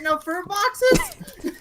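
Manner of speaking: high, very drawn-out complaint; mock disappointment. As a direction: stretch the question in playful letdown. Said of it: "I'm disappointed".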